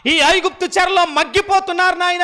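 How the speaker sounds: high, fervent acted prayer; imploring, as if praying on your knees; pleading prayer. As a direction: cry out to God on the people's behalf. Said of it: "అని మోకరించి ప్రార్థన చేసేది".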